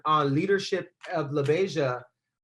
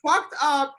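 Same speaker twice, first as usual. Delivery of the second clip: high, slow mock scorn; acted-out insult; 8 semitones higher, 4 dB louder, slower than usual. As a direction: draw the insult out at a raised pitch. Retold insult, climax of the list.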